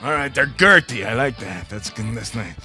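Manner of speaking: high, hammed-up radio host voice; gravelly metalhead. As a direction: play Paco Suave the game show host. Introduces self as Paco Suave, host voice.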